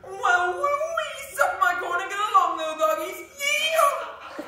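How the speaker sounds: loud, twangy hick drawl; dumb hick voice. Acted. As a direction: whoop it up like a cowboy hick. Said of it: "Dumb hick stereotype".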